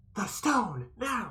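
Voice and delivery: loud, high-pitched stage whisper. Calling down a hall to pass a signal: loud whisper. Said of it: "kinda loud whisper down the hall".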